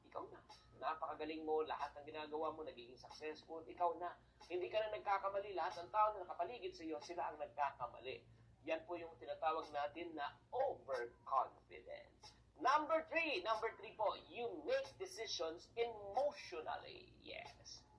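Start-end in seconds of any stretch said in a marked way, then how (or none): 0.1-2.6 mock boast. Mocking the overconfident self. 14.3-17.8 whisper. Shown as a demonstration. Dramatic point then whisper.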